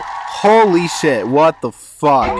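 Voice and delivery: shocked. Real, not acted. Shocked reaction to a photo.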